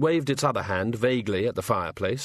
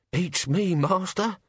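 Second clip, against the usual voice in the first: higher, chirpy sidekick; cheerful servant voice; 8 semitones higher, slower than usual. Acted. The sacks cheering up the Hogfather, chirpy. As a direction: bluff encouragement for the master.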